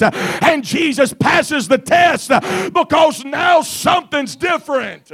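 fiery preaching. Acted. Preacher pressing the congregation, fiery preaching. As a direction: preach it out with rising force.

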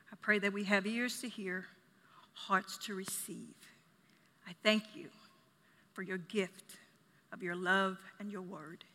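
low, measured prayer with firm openings, easing off. Real, not acted. Preacher prays to the Father before the message, low prayer. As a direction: pray in a low voice, pausing between phrases.

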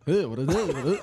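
barely changed, weak try at a zany comedian voice; a half-hearted go at a manic funnyman; Robin Williams impression. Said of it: "Can you do a Robin Williams impression?".

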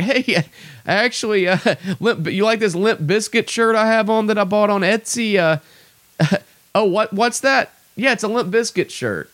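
high, smug voice with giggles, mocking an ironic fan; mock ironic hipster. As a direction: play a smug ironic hipster who laughs at his own shirt.

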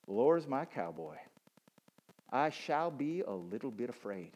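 put-on a touch of cowboy accent, at ordinary volume. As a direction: recite it lightly in a cowboy accent. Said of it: "My cowboy accent".

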